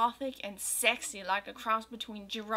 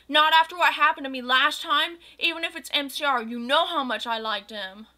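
louder, higher, fast mock rant; angry; 4 semitones higher, 6 dB louder than usual. Goth girl scolding Draco about last time, mock angry. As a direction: keep up the hammy fury. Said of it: "I shouted angrily".

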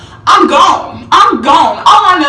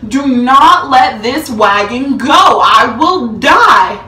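mock desperate plea; slower than usual. Begging cousin not to release wagon.

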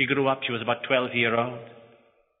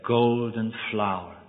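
slow, soft and lower, savouring "Golden flower."; tender name; 4 semitones lower, 5 dB quieter, slower than usual. Acted. Husband names his wife at last, "Golden flower." slow and tender. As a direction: breathe "Golden flower." gently and slowly. First time calling her name.

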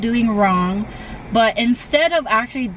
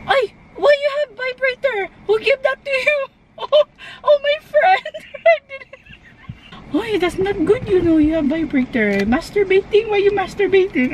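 put-on high, mom's Filipino accent; scolding mom in Filipino accent; 9 semitones higher than usual. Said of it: "your Filipino accent is so good".

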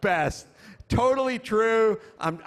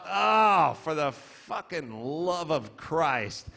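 exasperated groan; 4 semitones lower, slower than usual. Real, not acted. Exasperated at American cheese enchiladas.

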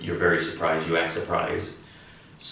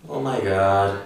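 louder; 6 dB louder than usual. Shown as a demonstration. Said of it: "the same thing we can say in English".

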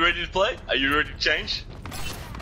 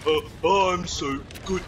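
fast, higher stuttering brag; lightly voiced smug teammate; mock stammering braggart; 5 semitones higher than usual. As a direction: parody him tripping over his words. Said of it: "I'm just making fun of you".

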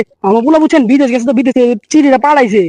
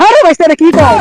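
louder, raised exasperated call; exasperated snap; 4 semitones higher, 5 dB louder than usual. Acted. Uncle scolding nephew over a misread letter, exasperated and loud. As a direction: scold the boy for reading nonsense.

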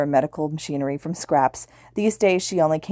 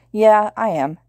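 higher, louder, emphatic reply; 5 semitones higher, 5 dB louder, slower than usual. A narrator's reading. Ida answers whether he is coming, emphatic. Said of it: "Ida answered emphatically".

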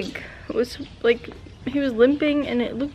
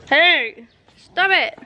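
firm call to the dog; telling off; 4 semitones higher, slower than usual. Real, not acted. Owner telling the dog off, firm. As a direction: stop the dog now.

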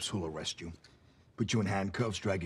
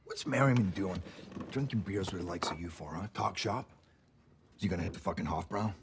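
tough cop. Acted. Cop mocking suspect's crew.

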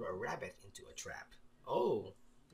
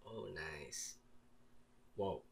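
usual speaking voice

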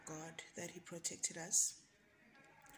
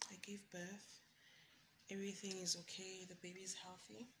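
soft, much quieter whisper; 9 dB quieter than usual. Real, not acted. Whispers news after birth.

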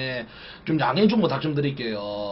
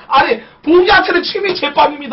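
laughing shout; 13 semitones higher, 8 dB louder than usual. Real, not acted. Bursts out laughing, then shouts.

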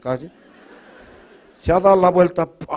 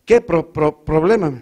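stutterer; slower than usual. Retold or imitated. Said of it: "mi amigo Tarta".

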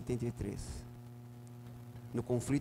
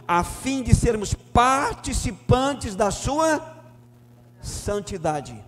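slow drawn-out emphasis; 8 semitones higher, 9 dB louder, much slower than usual. Acted. Pastor lingering over the verse's climax, slow and emphatic. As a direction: stretch "a fim de sermos participantes da sua santidade" very slowly, leaning on "sua".

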